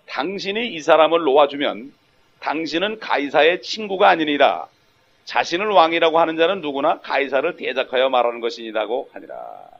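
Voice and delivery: measured, solemn Bible recitation; scripture reading. A narrator's reading. Reads scripture aloud.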